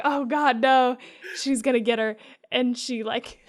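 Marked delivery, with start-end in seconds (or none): 0.0-2.2 excited panic. Retold or imitated. Friend retelling the balcony scene, mock alarmed outburst. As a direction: gasp it out like the harpoon is about to land. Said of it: "You're like".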